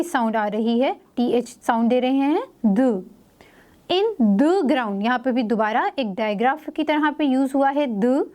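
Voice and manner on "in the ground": slow reading. Shown as a demonstration.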